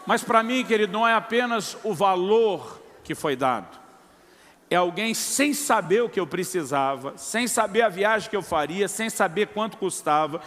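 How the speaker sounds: rising, emphatic sermon close over music; preaching. Acted. Pastor exhorting his congregation, fervent preaching. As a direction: drive the lesson home to the church.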